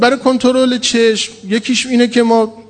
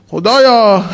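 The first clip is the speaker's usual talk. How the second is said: put-on Azeri accent; 3 semitones higher, much slower than usual.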